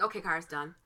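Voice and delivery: low, soft imitated announcement; quiet all-clear. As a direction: say it small and calm, dropping low. Boss's all-clear, retold.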